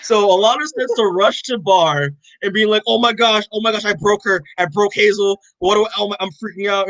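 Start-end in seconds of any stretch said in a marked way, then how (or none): 2.9-6.9 lightly acted panic, a bit higher; retold freak-out. Alana rushes to Bar after breaking the baby, mock panic. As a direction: imitate a frantic mother blurting it out. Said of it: "as freaked out as Alana".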